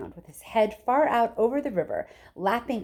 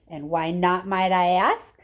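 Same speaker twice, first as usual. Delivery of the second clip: mild shout; 4 dB louder than usual. Acted. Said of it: "shouted Missus Gloop".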